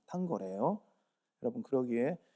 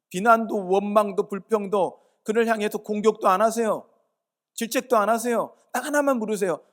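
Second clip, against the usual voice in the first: loud, higher, pressing exhortation; fervent preaching; 6 semitones higher, 8 dB louder than usual. Acted. Preacher urging the congregation not to blame, loud and fervent. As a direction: urge the congregation hard from the pulpit.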